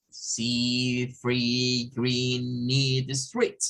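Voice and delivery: See, free, green, need, street con I larga inglesa; English long I. Shown as a demonstration. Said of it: "realmente es un I del inglés". (i larga del inglés)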